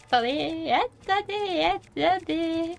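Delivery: rising, stretched-out "attendez"; begging for a moment, drawn out at the end; panicked pleading. Real, not acted. Gamer begging the viewers to wait, panicked.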